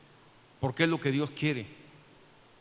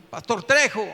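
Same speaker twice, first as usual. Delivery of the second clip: raised, slightly louder shout; calling out; 3 semitones higher, 5 dB louder than usual. Retold or imitated. Man still waiting outside the pastor's house, calling out. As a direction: call up to a closed house.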